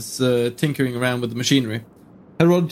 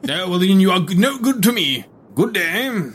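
formal gentleman voice; 6 semitones higher, 3 dB louder than usual. Acted. Herodotus dismisses the prisoner.

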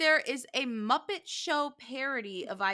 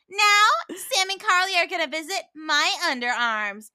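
higher, showy presenter voice; puppet master quote; 7 semitones higher, 9 dB louder than usual. Acted. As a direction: announce it like a hammy puppeteer. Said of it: "He actually goes".

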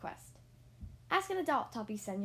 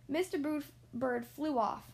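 put-on reading a picture book aloud to children; story narration; 2 semitones higher than usual. A narrator's reading. Reader telling children about Mister and Missus Bird, storybook narration. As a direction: tell it like a bedtime story.

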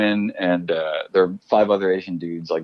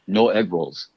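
flat delivery-guy line in an Asian accent; deadpan Asian accent, first take; slower than usual. Shown as a demonstration. Auditioning actor reads his line in an Asian accent, deadpan. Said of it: "first line with an Asian accent".

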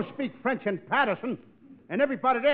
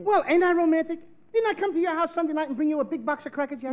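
Didn't I? pleaded higher; indignant protest; 5 semitones higher than usual. Acted. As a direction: raise the voice in wounded pride.

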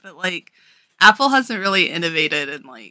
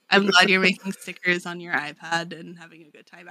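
sincere words that come out mildly snarky; mean it genuinely, but let it sound faintly sarcastic; unintentionally sarcastic. Retold or imitated. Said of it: "That sounded really sarcastic".

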